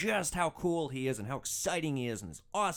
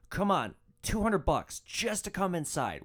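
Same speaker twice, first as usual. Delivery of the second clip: higher, slow, wheedling imitation; coaxing passenger; 6 semitones higher, 3 dB louder than usual. Drunk passenger offering driver money to come inside, coaxing. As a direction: mimic him talking someone into it, drawn out.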